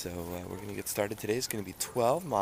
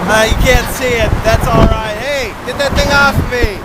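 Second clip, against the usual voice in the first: excited; 11 semitones higher, 14 dB louder, slower than usual. Real, not acted. Excited loud on bridge.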